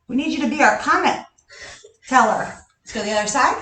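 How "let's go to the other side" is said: winded after the squat jumps; breathless, puffing between words; out of breath. Real, not acted. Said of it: "I can't believe I'm out of breath".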